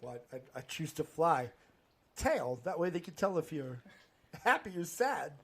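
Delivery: understated, halting celebrity impression; a touch of Walken, with odd pauses; Christopher Walken. Answering the fly-or-tail question in Walken's story, understated impression. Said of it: "the Christopher Walken story".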